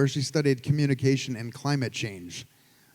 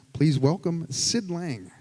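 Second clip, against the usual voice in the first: announcing; 2 semitones higher than usual. Real, not acted. Host announcing the next speaker.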